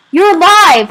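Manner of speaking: high, loud cry of relief; joyful shout. A narrator's reading. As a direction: shout it out, overjoyed and astonished. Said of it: "I shouted".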